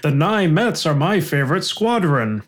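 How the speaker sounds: slow Indian accent attempting American; mock Indian-accented try at sounding American; lightly put-on, slow fake-American accent; Apu. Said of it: "like Apu trying to sound American".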